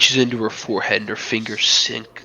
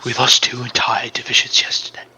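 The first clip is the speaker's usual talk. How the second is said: pale, scared whisper; a terrified young soldier whispering to his commander; frightened soldier. Acted. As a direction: breathe the bad news in fear. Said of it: "he goes pale and goes".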